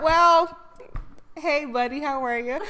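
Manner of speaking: normal talking voice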